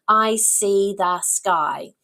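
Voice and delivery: slow, distinct words. Shown as a demonstration. Teacher models a shorter sentence, slowly word by word. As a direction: say it slowly with every word standing apart. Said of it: "We want them to hear how many words".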